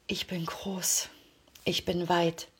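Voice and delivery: slow, soft affirmations spoken to yourself; quiet, slow, earnest self-affirmation; affirmation demo. Shown as a demonstration. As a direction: say each line slowly as if you truly believe it. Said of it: "du hast es gerade an meiner Stimme gehört".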